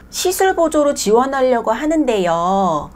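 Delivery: slow, drawn-out inquiry; imitated applicant. Applicant messaging the shop about an assistant job, imitated drawn-out inquiry. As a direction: mimic an applicant, stretching out the words.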